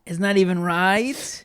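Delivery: breathy whisper of disbelief; whispered laughing aside. Real, not acted.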